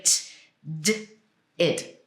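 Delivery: bare "t", bare "d", then "id", spaced out; isolated endings with pauses between; three ED sounds. Shown as a demonstration. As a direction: sound out "t", "d", "id" one by one. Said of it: "that's three different ways".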